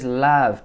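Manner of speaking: LOVE said as "lav", with a flat a; imitated mispronounced love. Coach echoing how she kinda says it, imitated vowel. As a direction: copy the learner's "lav" for LOVE. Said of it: "She s-, kinda says".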